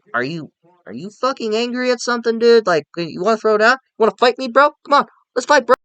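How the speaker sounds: hammed-up bro picking a fight; mock tough guy. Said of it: "it's like".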